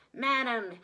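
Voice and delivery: loud gasped address, breathless with rage. Acted. Manager confronting Missus Prim, loud gasp. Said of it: "he gasped".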